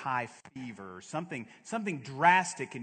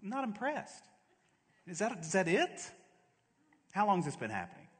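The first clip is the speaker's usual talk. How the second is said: unimpressed Jesus; 6 semitones higher, faster than usual. Acted. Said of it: "Jesus just stands back and he says".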